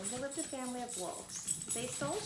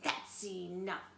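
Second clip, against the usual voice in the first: stern bark; 3 semitones lower, slower than usual. Acted. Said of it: "barked Father Wolf".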